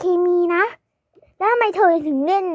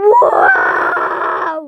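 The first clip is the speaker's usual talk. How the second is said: excited wow; 12 semitones higher, 5 dB louder, much slower than usual. Acted. Sees shop full of slime.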